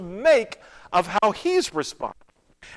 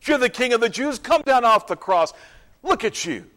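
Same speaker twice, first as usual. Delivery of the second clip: raised-pitch jeering; mildly acted mockery; mocking crowd; 5 semitones higher than usual. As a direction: taunt him like a heckler in the crowd. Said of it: "they mocked him, they said".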